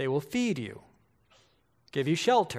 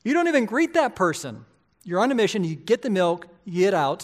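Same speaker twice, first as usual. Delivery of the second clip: emphatic preaching; 3 semitones higher, 4 dB louder than usual. Real, not acted. Preacher urging the congregation.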